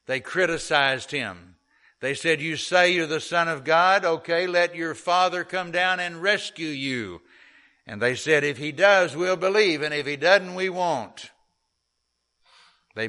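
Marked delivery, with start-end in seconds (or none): 2.4-11.3 mocking jeer. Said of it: "The Jews mocked him".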